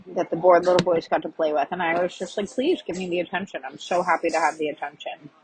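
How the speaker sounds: talking while chewing a peppermint; words around a mint in the mouth; mouth full. Real, not acted. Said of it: "I'm chewing a peppermint".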